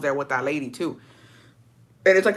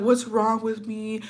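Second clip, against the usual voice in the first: retold bawling; 5 semitones higher, 3 dB quieter, slower than usual. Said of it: "I fucking lost it".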